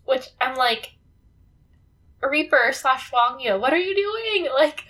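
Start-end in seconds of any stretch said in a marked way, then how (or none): 2.2-4.8 exasperated. Retold or imitated. Exasperated reaction to the Reaper.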